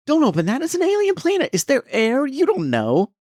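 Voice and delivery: high, loud mock panic; panicked outburst. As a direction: imitate a man shrieking a frantic warning. Acting out panicked film character.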